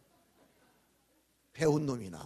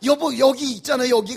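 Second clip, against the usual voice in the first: lightly voiced flustered wife, louder; wife asking; 8 semitones higher, 14 dB louder than usual. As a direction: imitate the wife groping for a word. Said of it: "그러는 거".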